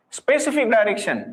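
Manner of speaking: "Specific" hit hardest, then "direction" falls away; stress on specific. Shown as a demonstration. Teacher insisting to students on the key word, stressed. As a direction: press on the word "Specific" so the class remembers it. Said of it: "I am putting stress on this word".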